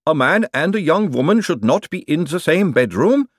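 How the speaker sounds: solemn, high, loud golem voice; slow stone monotone. Acted. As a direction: state it as unshakeable fact. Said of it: "with solemn certitude".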